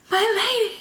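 high, breathless awe over "My lady"; awestruck whisper-like. Retold or imitated. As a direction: say it as if dazzled. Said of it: "I just picture him going".

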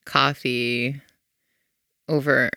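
ordinary talk, nothing marked

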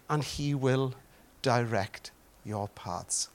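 slow, measured recitation of a verse; scripture recitation. Real, not acted. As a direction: recite it slowly and reverently.

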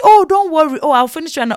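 lightly voiced tailor making hasty promises; reassuring tailor. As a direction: imitate a tailor soothing a customer. Tailor brushes off the complaint.

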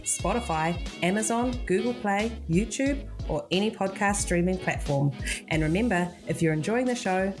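measured, scripted announcer delivery; podcast outro read. Real, not acted. Host signing off to podcast listeners, scripted outro read. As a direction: read the show credits clearly, item by item.

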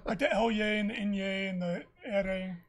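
"L yay", "N yay" and "ere" in a laughing, clumsy Spanish accent; mock Spanish sounds. Shown as a demonstration. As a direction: fumble the Spanish letter sounds while laughing. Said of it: "I always feel like an idiot when I try to roll the R".

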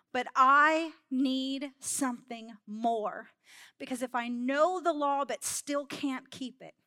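emphatic, slowing sermon reading; preacher reading Romans to the congregation; scripture reading. Acted. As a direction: read Paul's words like a confession to the church. Reads Romans aloud, preaching.

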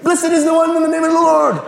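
high, loud, fast, odd voice; high, loud, fast talking-rock voice. Acted. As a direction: squeak it out like a rock come alive. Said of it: "And he'd be like".

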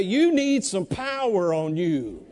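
emphatic and drawn out, leading the crowd; like you mean it. Shown as a demonstration. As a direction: say it slowly, with real conviction. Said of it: "say it like you, you really mean it".

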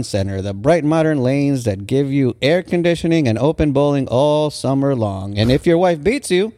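mock announcer reading old ad copy; vintage ad read. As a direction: read it like a cheery bowling promo. Reads out a vintage ad.

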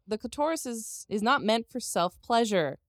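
slow, emphatic reading with drawn-out key words; mock-solemn scolding read. Host reading a scolding post to co-host, slow and mock-solemn. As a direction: read it like a stern lecture, deliberately.

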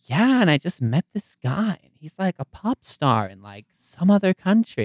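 slow, soft, airy mock Californian; lightly voiced airy wife. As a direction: play the clueless wife, slowly. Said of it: "she goes".

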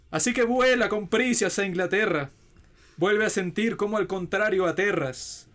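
grand, heightened poem reading over music; poem recitation. Acted. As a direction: recite it like an epic ode.

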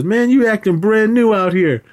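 high-pitched mock indignation; Day Day arguing back. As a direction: argue back high, playing affronted.

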